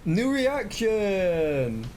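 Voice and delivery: high, drawn-out shouted "New reaction!"; excited yell. Real, not acted. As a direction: stretch it out in a big excited yell. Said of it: "did I yell".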